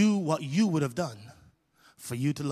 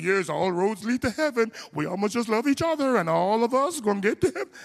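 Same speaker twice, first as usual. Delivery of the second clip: mock congregation; 4 semitones higher than usual. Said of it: "y'all be like".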